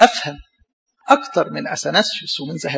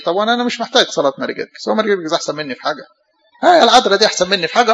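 proud scoffer; 3 semitones higher, faster than usual. Retold or imitated. Mocking a proud man's voice.

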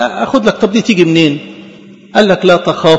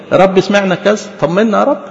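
model prayer. Shown as a demonstration. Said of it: "اقف بيها قدام ربنا".

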